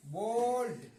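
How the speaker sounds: बोल्ड with a drawn-out o; long o. Shown as a demonstration. Teacher showing the o sound, बोल्ड with long o. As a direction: hold the o in बोल्ड. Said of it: "इसका उच्चारण ओ".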